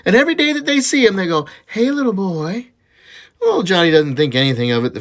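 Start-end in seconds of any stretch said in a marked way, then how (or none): 1.7-2.7 slow, higher-pitched singsong call; teasing catcall. Acted. Prostitutes calling to a boy passing their alley, teasing catcall. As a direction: draw it out like a teasing come-on.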